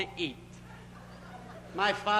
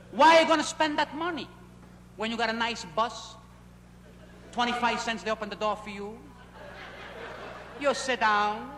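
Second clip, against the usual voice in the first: mock lecturing father; 2 semitones higher than usual.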